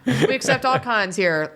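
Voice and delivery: mock the big welcoming Southern man; huge Georgia man. Joking retelling of the Georgia man's welcome. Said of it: "the huge Georgia man saying that".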